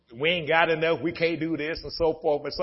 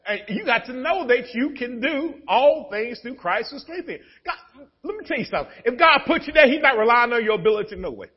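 raised, building sermon cadence; high, pressing preacher voice; preaching; 8 semitones higher, 6 dB louder than usual. Acted. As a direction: preach it out to the church. Preaching at full force.

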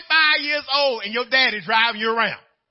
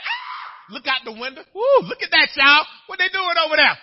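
high yelp, then louder fussing at the window; mock panic; 6 semitones higher, 7 dB louder than usual. Shown as a demonstration. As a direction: play the flustered driver. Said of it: "I can panic".

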